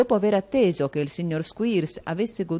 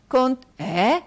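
put-on a much higher, stammering little boy; boy's voice; 9 semitones higher, 8 dB louder than usual. A narrator's reading. Walkford answering his father, high and stammering. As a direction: blurt then catch yourself like a scared child.

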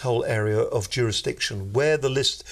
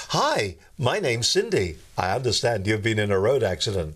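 automated voice. Retold or imitated. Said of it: "automated voices on them".

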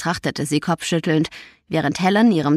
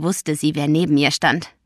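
usual speaking voice

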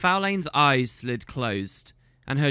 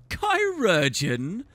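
slow, scornful "Chirurgeon?" rising at the end; mocking question; 7 semitones higher, slower than usual. A narrator's reading. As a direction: drag out "Chirurgeon?" as if the word were absurd. Faolain mocks the word.

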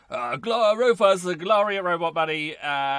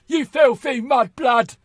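slow, loud, higher sneer; Bellatrix voice; 6 semitones higher, 10 dB louder, slower than usual. Shown as a demonstration. Gamer shows his Bellatrix voice, slow and sneering. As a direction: spit out the insult slowly, sneering. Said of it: "I'd have this voice".

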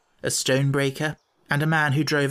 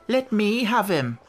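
higher, insistent gypsy woman; pushy gypsy woman; 7 semitones higher than usual. Acted. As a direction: press for the baby. Second gypsy woman asks.

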